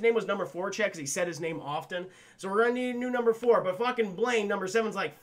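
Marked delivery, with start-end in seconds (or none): 2.4-3.6 quicker, milder version of the outburst; brisk repeat. Retold or imitated. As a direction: toss it off quickly, slightly raised. Repeats the line more lightly.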